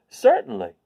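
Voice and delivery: high, loud bright scarecrow reply; cheery scarecrow. Acted. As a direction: pop it out like a cheerful straw man. Scarecrow voiced.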